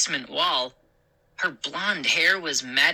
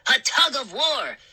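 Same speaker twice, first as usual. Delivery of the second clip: high, slowing gleeful shout; 6 semitones higher than usual. Acted. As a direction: shout with wicked glee. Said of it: "Chip shouted".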